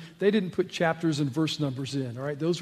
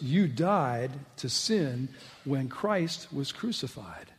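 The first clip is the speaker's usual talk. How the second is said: slow dictation; 3 semitones lower, 6 dB quieter, slower than usual. Shown as a demonstration. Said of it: "jot this down in your notes".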